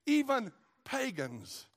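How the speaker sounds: shouted very high, then slow and loud; joyful shout. Retold or imitated. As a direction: cry out in joy at the baby. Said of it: "he's like".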